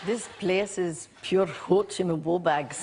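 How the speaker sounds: slow, laughing stab at a Scottish accent; Scottish accent attempt. Shown as a demonstration. Actress asked to try Scottish, slow laughing Scottish accent. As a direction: try the Scottish line, giggling. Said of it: "can you say".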